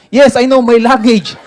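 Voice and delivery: slow, loud, laughing English; relieved traveller answering the officer slowly. Retold or imitated. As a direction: say it proudly, word by word. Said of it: "Ah, yun lang ba".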